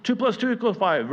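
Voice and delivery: hammed-up teacher; mock teacher. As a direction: call it out loud like a teacher. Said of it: "on cue".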